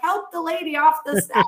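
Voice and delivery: mock urgent, to the crew; imitating a crew member calling out; calling for help.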